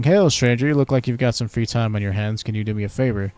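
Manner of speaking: mock British guard, hailing a stranger; British accent. Sentry hailing a passing stranger, in a light British accent. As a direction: play a bored British sentry. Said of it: "very British".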